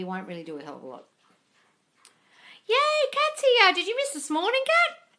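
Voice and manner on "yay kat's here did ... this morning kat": excited greeting. Real, not acted. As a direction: cheer at a friend arriving. Greeting viewer joining.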